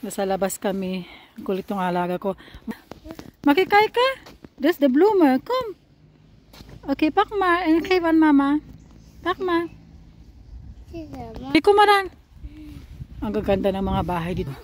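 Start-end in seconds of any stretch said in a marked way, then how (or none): 3.5-12.1 loud high caregiver lilt. Real, not acted. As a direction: coax a little one along, pitched way up. Calling the child along on walk.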